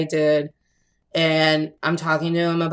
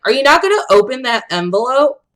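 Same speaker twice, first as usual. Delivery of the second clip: mock impatient friend; 7 semitones higher, 4 dB louder, faster than usual. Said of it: "And he's like".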